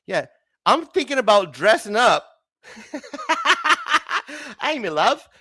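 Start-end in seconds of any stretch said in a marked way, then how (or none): 4.6-5.3 put-on higher, shaky-grasp British accent; attempted British accent. Host playing a dressed-up peasant, bad British accent. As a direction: try a Renaissance-fair British accent. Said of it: "Is that British?".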